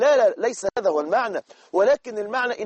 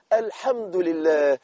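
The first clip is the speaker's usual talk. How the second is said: slow grateful praise; 2 semitones lower, much slower than usual. Shown as a demonstration. Preacher showing the sick how to say thanks, slowly. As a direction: savor each word of thanks. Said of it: "ولكن حولها بس كده".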